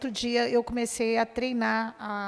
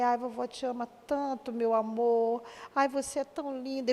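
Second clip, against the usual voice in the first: much softer, coaxing the granddaughter close; tender grandma; 4 dB quieter than usual. Retold or imitated. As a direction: hush her gently into a hug. (avó falando baixinho e carinhosa com a neta)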